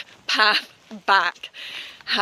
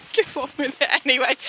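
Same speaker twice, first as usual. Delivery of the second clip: whispering; 4 semitones higher, faster than usual. Real, not acted. Whispered aside after laughing.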